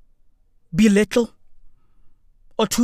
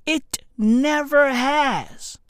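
slow corrected quote; 3 semitones higher, much slower than usual. Retold or imitated. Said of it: "You mean, you mean".

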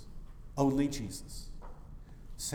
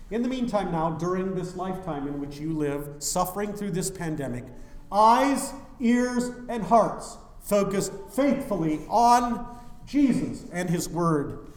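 preaching at full force; 5 semitones higher, 7 dB louder than usual. Acted. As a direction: urge the congregation to focus. Preaching exhortation.

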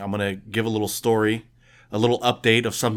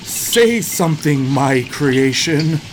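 mad scientist; 3 semitones higher, 3 dB louder, slower than usual. Acted.

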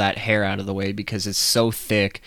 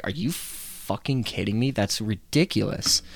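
quiet disbelief; 6 dB quieter than usual. Retold or imitated. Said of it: "I didn't say it like that".

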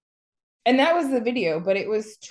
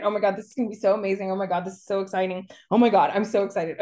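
rapid mock gushing; much faster than usual. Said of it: "And the other one's like".

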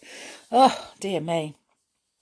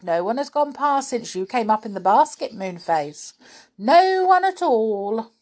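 shouted reply; 5 semitones higher, 4 dB louder than usual. Acted. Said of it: "she shouted back".

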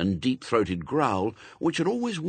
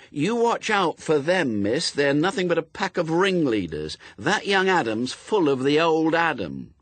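louder, higher village busybody voice; gossipy old neighbour; 6 semitones higher, 5 dB louder than usual. A narrator's reading. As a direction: scold like a nosy old villager.

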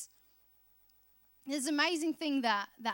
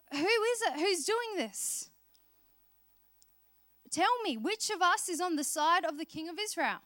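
angry demand; 3 semitones higher than usual. Retold or imitated. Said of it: "he's getting mad".

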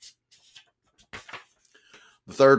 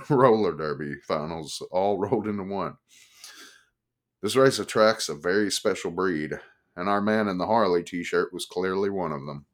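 ordinary delivery

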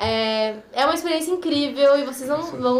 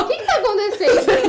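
laughing surprise; 7 semitones higher, 4 dB louder than usual. Real, not acted. Confused amid laughter.

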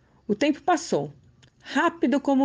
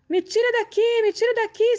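high desperate shriek; 12 semitones higher than usual. A narrator's reading. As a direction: scream to be let out. Death trapped again.

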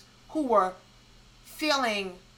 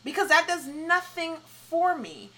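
dismissive retort; 6 semitones higher than usual. Retold or imitated. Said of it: "It's like".

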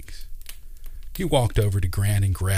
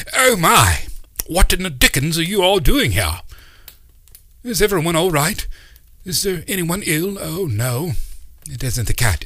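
put-on flustered old uncle; 7 semitones higher than usual. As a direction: babble in a kindly fluster about a dead cat.

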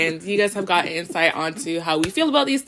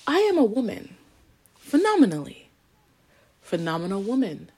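dramatic recitation. Acted. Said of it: "the quote of the day".

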